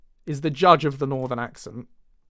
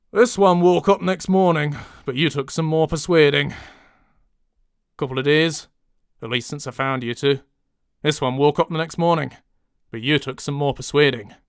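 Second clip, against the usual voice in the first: stronger northern English accent; fuller-voiced northern take; different accent. Shown as a demonstration. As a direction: push the northern vowels harder. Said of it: "monologuing in different accents".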